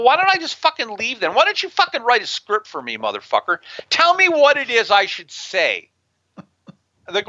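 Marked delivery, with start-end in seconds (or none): 0.0-5.9 high-pitched retold exasperation; frustrated retort. Guest retelling his retort to network staff trying to sanitize him, frustrated. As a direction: re-enact a fed-up comeback, pitched up but not shouted. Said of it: "I get, like, frustrated".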